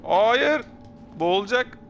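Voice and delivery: high panicked shout; panicked cry. Real, not acted. Panics as character drowns.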